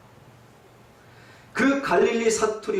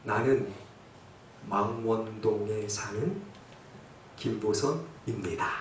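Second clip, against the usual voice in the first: mock Seoul accent; 5 semitones lower, 7 dB quieter than usual. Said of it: "그래도 흉내를 내요".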